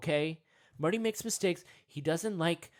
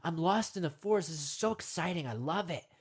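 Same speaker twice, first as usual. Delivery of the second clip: acted-out delight, swelling at the end; excited; 3 semitones higher than usual. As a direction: revel in being lost, mock-thrilled. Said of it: "You're kind of excited that you're lost".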